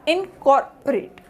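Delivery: "incorporate" in separated chunks, middle O reduced; syllable by syllable. Shown as a demonstration. Teacher models the word pronunciation for students, syllable by syllable. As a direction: say "incorporate" slowly with gaps, weakening the second O. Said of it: "so the word pronunciation is".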